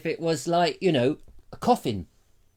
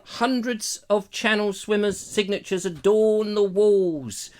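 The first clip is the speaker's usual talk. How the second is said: dramatic fashion; 4 semitones higher than usual. Acted. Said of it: "I'm doing this in a dramatic fashion".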